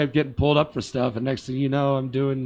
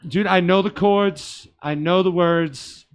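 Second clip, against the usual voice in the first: exasperated; 4 semitones higher, 6 dB louder, slower than usual. Retold or imitated. Exasperated reply to requests.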